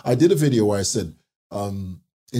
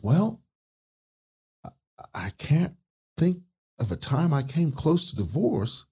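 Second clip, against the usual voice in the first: higher, deadpan joke punchline; pastor's deadpan punchline; 5 semitones higher than usual. Retold or imitated.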